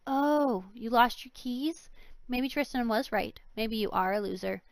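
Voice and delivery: smug. Acted. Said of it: "Amy smiled slightly".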